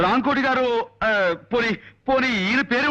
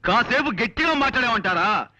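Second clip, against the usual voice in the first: exasperated; 4 semitones higher than usual. Acted. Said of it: "ఎందుకు అలా అరుస్తారు కంఠశోష?".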